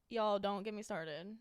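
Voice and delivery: lightly country "Y'all", slowed down; slow, mildly mad country phrasing. Shown as a demonstration. Host showing how she talks when mad, mildly country. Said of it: "Like, when I'm mad".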